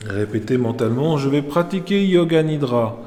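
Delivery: measured Yoga Nidra instruction with long pauses; calm meditation teacher's voice; guided meditation. Real, not acted. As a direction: guide them into rest, phrase by phrase. Leads Yoga Nidra session.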